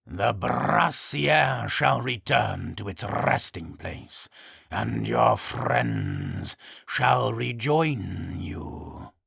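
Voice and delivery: slow, grave creature voice; solemn and unhurried. Acted. Harpygriff speaks.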